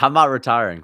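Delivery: indignant loud refusal; firm denial. Real, not acted. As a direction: shoot down the idea hard. Chat tells him to retire.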